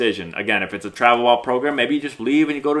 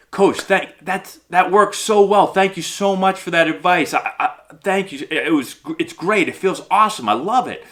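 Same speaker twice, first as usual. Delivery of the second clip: higher, effusive mock gratitude; gushing player; 6 semitones higher than usual. Player fooling coach after a hit, gushing gratefully. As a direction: lay on the thanks, voice lifted. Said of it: "you just pretend like".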